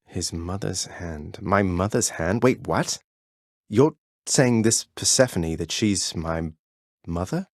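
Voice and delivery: hushed, slowed and shaken, the words barely out; soft stunned whisper of disbelief. Acted. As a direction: someone who just learned his mother was kept from him. Learns Persephone is his mother.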